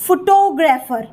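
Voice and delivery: "फोटोग्राफर" slowly, stress on "टो"; second-syllable stress. Shown as a demonstration. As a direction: punch the "टो" in "फोटोग्राफर". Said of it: "टो पे sound पे आ जाएगा". ("फोटोग्राफर" में "टो" पर ज़ोर, धीरे)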